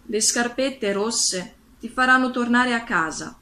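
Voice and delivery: animated storybook reading, lifted at the start; story narration. A narrator's reading. Glinda tells Dorothy how to get home, animated story narration. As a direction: read it out with emphatic fairy-tale delivery.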